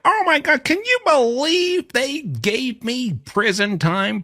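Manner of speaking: very high, loud mock whine; whiny daughter. Reactor imitating the daughter complaining about prison, shrill mock whine. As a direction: squeal it like a spoiled brat. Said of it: "complain like".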